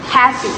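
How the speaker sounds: "happy" stressed on HAP; first-syllable stress. Shown as a demonstration. Student demonstrating word stress, "happy" with weight on HAP. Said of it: "stressed on the first syllable".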